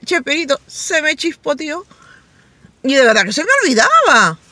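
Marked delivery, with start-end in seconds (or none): 0.7-1.9 Chespirito catchphrase. Retold or imitated. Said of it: "Como decía Cheperito".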